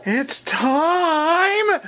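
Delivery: wake-up yell. Real, not acted. Waking daughter, rising yell.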